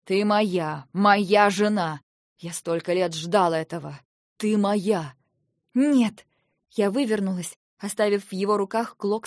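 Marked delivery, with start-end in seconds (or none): 0.0-5.1 loud, slow possessive claim, hammering моя; possessive shouting. Acted. Husband pins his bride and claims her, loud. 5.7-6.3 high, loud cry of no; shouted refusal. Acted. Bride refuses her husband's advance, high loud cry.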